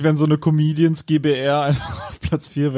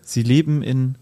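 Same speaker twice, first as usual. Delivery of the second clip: poem recital. Acted. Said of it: "das Abschlussgedicht, äh, vortragen".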